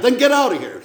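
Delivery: retold shouted order; calling from outside. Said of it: "a voice from outside".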